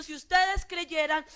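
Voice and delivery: slow, loud, pained cry; preacher voicing Jesus, exasperated; indignant outcry. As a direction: cry it out in frustration at their unbelief. Jesus cries out in anger.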